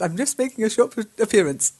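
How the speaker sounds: high, loud ta-da announcer; grand showbiz announcement. Pretend. Teacher hamming up a student's forum entrance, grand announcer. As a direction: announce him like a star on stage. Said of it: "I love that".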